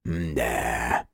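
low, soft, drawn-out hm; thoughtful drawl. A narrator's reading. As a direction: muse aloud, trailing. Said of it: "протянул задумчиво Корняш". (задумчиво, тихо и протяжно)

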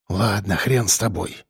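annoyed hiss. A narrator's reading. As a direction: spit it out under your breath. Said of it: "прошипел я".

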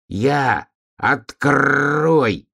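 high, insistent demand with rolled r; donkey calling out. A narrator's reading. Donkey at bear cub's door, insistent call. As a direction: call to be let in, pitched high.

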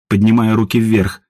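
ordinary delivery

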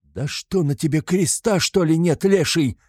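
high loud reproach; old man's indignant shout. A narrator's reading. An old man scolds Mikolka, high indignant shout. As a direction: scold him from the crowd. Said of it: "кричит один старик из толпы".

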